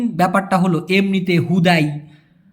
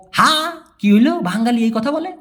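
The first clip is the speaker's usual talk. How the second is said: surprised Malaysian; 5 semitones higher than usual. Retold or imitated. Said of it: "বলতে বাধ্য হবে".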